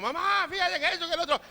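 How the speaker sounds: put-on high-pitched excited kid voice; himself as a child. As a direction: imitate a little boy chattering to mom. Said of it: "Y yo de chico".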